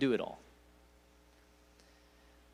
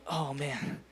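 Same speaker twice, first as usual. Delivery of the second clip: regretful groan. Retold or imitated. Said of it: "and I'm going".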